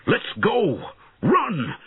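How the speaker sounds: high-pitched shout to flee; urgent high cry. A narrator's reading. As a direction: shout to get your daughter running. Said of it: "shouted Redbeard".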